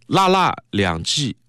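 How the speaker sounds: slow, awkward Mandarin reading of a Shanghainese phrase; halting Mandarin pronunciation of dialect words; Standard Mandarin reading. Shown as a demonstration. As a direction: read the dialect line stiffly in Mandarin, slowly. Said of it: "我用普通话读都读不顺畅".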